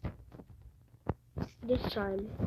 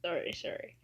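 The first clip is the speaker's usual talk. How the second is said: laughing; 3 semitones lower, 5 dB quieter than usual. Real, not acted. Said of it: "I can't stop laughing".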